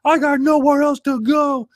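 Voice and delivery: Richard Gere impression. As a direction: beg desperately like a broken cadet, drawn out. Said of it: "Richard Gere's like".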